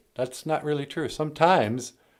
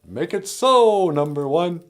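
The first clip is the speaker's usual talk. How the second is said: Captain Picard; 6 semitones higher, 4 dB louder than usual. Retold or imitated. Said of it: "Star Trek captain line".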